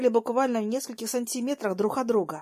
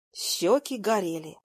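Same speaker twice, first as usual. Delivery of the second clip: usual speaking voice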